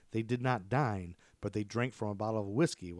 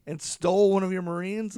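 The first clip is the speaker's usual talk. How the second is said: laughing incredulous quote; 10 semitones higher, 7 dB louder than usual. Retold or imitated. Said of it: "and I was like".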